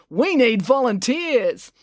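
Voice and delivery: high, slow, stretched appeal; rallying call. A narrator's reading. Brad asking town for help, rallying call. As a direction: project it to the whole crowd. Brad rallies crowd from stage.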